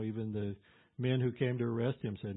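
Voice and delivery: normal talking voice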